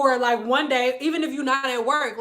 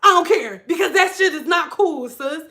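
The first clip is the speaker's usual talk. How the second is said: a mildly raised, irritated rant; irritated brother; 5 semitones higher, 3 dB louder than usual. Retold or imitated. Brother ranting at his sister about mess, mock irritated. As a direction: vent like an annoyed brother. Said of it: "he was like".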